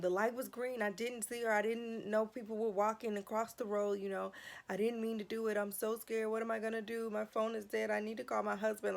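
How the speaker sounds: half-acted frightened babble to the officer; frantic pleading. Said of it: "frantic, and I'm telling him".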